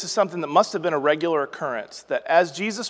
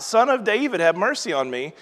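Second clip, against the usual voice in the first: crying out; 4 semitones higher than usual. Retold or imitated. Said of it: "he begins to cry out".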